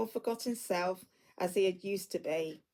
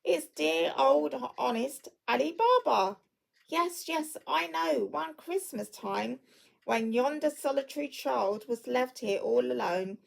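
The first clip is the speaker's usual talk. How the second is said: put-on much higher, tumbling with childlike joy; ecstatic; 3 semitones higher, 3 dB louder than usual. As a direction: gush over a beloved childhood hero. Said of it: "exclaimed in ecstasy".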